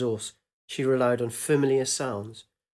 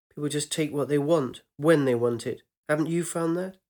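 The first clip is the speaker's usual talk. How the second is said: chatty and open, slightly raised; lightly voiced young woman; 2 semitones higher than usual. Young woman telling her lover about the monastery, light and eager.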